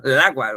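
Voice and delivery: "lagua" said as one word; run together. Shown as a demonstration. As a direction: glue article and noun into "lagua". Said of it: "va a sonar así como que muy juntito".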